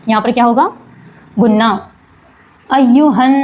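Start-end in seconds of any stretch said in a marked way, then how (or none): 2.7-3.3 अय्युहन with the nn held and hummed through the nose; ghunna on the noon. Shown as a demonstration. Teacher showing students the nasal ghunna, nasal hum. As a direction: let the doubled noon in अय्युहन ring nasally. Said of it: "आवाज़ नाक में जाएगी".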